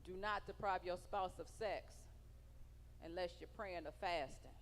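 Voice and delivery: low, soft, measured verse recital; scripture quoting. Retold or imitated. Comic quotes the Bible to married women, solemn recital. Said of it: "the Bible say in First Corinthians".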